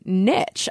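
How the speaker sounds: "niche" with a short i and tch ending; American "nitch" pronunciation. Shown as a demonstration. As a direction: say "niche" as "nitch", rhyming with rich. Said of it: "saying that to our British listeners".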